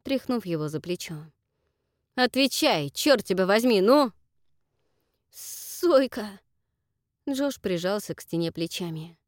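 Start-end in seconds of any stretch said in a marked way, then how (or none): 2.2-4.1 loud, high, forceful; a loud, furious demand; angry demand. Acted. Jack shakes Josh for an answer. 5.3-6.4 "Сойка" said high, audible, in fear; frightened cry. Acted. Josh answers in fear.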